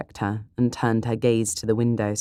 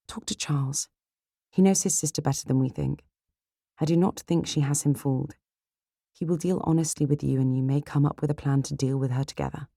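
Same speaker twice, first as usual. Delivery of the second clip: slightly higher, gentle advice; lightly voiced, encouraging young lady; reassuring sister Elizabeth; 4 semitones higher than usual. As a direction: counsel your sister kindly.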